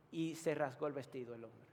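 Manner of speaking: usual speaking voice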